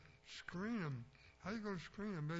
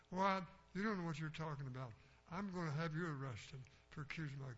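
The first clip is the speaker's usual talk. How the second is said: angry mother. Retold or imitated.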